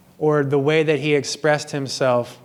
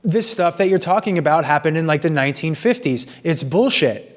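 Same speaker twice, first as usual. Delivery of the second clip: mildly raised, higher retelling of the argument; retold raised voice; 3 semitones higher than usual. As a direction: re-enact the outburst lightly, pitch up. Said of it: "or I raised my voice and I said".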